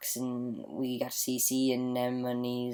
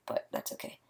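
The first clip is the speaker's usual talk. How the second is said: whispering; 6 dB quieter than usual. Real, not acted. Hushed so family keeps sleeping.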